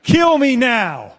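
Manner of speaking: loud, pleading kill me now; begging in agony. Retold or imitated. Acting out a man with crushed balls, loud pleading. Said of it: "all of us are just like".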